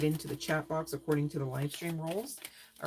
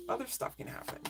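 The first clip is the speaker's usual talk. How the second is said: breathy high warning, much softer; ominous whisper; 8 semitones higher, 6 dB quieter than usual. Real, not acted. Reader warning the pile, hushed and ominous. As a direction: let it slip out like a secret.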